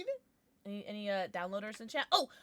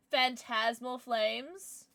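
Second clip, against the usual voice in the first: drawn-out announcement; much slower than usual. Real, not acted. First of repeated pack announcements.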